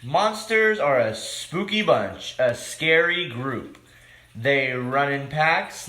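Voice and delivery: lively picture-book read-aloud, rhyming; reading to children. A narrator's reading. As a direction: read it like story time for kids.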